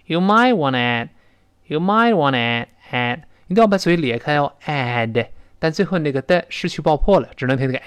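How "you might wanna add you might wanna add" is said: might and add full, wanna light; might and add stressed. Shown as a demonstration. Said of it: "might和add要读到位，那个wanna是很轻的".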